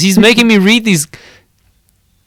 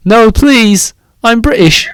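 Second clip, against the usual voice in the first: a mock British plea, pitched higher; playful British accent begging for mercy; 5 semitones higher than usual. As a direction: beg in a hammed-up British accent. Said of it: "You have to say it in a British accent".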